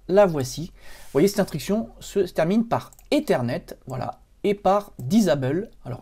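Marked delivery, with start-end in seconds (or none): 5.0-5.7 English word with a French accent; accent français en anglais. Real, not acted. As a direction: say "disable" the French way, not like a native English speaker. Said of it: "mon accent anglais vous fait toujours rire". (accent français sur le mot anglais)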